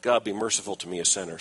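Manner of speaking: understated penitent prayer, low; a touch of contrition, sinking low and soft; humble plea. Acted. Tax collector praying afar off, mildly contrite. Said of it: "unwilling even to look up to heaven".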